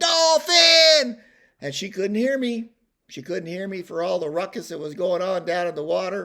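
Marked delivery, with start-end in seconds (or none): 0.0-1.2 very loud, shrill, high yell. Retelling a shout back from a balcony: imitating own past yelling. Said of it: "I'm yelling".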